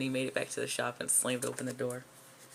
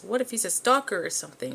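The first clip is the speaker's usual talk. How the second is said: freaked out; 6 semitones higher, 4 dB louder than usual. Acted. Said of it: "she gets really freaked out".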